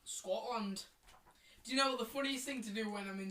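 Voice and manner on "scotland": put-on Scottish accent; hammed-up Scottish. Shown as a demonstration. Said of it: "let's do our accents right now".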